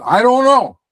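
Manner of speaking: put-on high, loud, half-hearted Italian accent on the punchline. Delivering the joke punchline to Tony, in a rough high Italian accent. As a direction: shrug it out like a stereotyped Italian, in a lightly done Italian accent. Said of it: "you gotta do it in an Italian accent".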